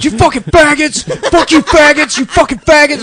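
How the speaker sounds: put-on high-pitched, loud mob of kids; retold screaming. Class screaming out the window at others, imitated shouting. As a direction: scream abuse like rowdy schoolkids. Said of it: "And we're screaming".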